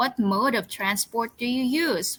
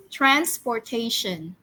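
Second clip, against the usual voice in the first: slow model word. Shown as a demonstration. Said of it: "One more time".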